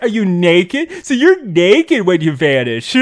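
high, loud talk-show host gushing; mock excited celebrity interviewer; Jimmy Fallon. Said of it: "Jimmy Fallon has a cameo appearance as himself".

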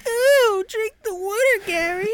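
very high, eerie coaxing croon; creepy voice. Acted. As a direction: coax him to drink, creepily. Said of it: "that fucking creepy ass voice".

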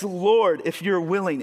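a touch of loud pleading, mostly on Lord; begging. Retold or imitated. Leper begging Jesus to heal him, mild pleading.

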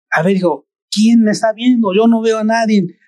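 a lightly voiced father asking his son; father demanding who is watching, mildly impatient; questioning father.

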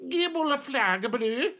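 high, slow ringing MC call; announcer MC. Acted. The MC announces the new challenger, booming. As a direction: proclaim it to the crowd. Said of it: "The M C will look up and say".

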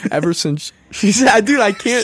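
tripping over words, laughing; giggling, tongue-tied; laughing fumble. Real, not acted. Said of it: "I can't say it cohesively".

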